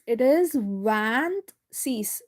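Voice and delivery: vingt-six drawn out slowly for the class. Shown as a demonstration. Teacher to students, saying vingt-six slowly. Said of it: "how do we say twenty-six".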